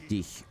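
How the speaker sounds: "dich" ending in a softened K sound; soft German ch. Shown as a demonstration. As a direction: say "dich" with the final ch as a soft, airy K. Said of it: "the K is softened".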